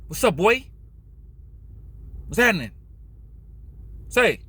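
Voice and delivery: mock proper Cali white boy accent. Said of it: "with a real white boy accent".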